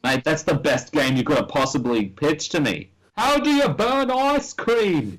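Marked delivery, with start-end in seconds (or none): 3.2-5.2 exasperated celebrity-chef tirade; Gordon Ramsay. Acted. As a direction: berate the cook at full pitch. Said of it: "let's replace this woman with Gordon Ramsay".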